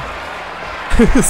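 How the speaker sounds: laughing. Real, not acted. Laughs at record jump.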